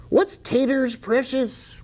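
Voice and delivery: high, strange creature voice; squeaky Gollum imitation; Gollum impression. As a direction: rasp it like Gollum hoarding. Gollum quote from The Hobbit.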